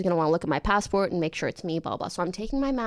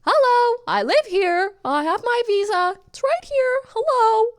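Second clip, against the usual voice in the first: speaking up; 12 semitones higher, 5 dB louder than usual. Retold or imitated. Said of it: "so I speak up a little bit".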